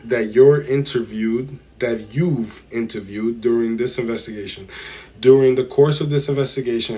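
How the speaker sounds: measured, deliberate reading voice; transcript read-aloud. A narrator's reading. Streamer reads testimony to chat, deliberate read-aloud. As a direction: read it out word by word, formally.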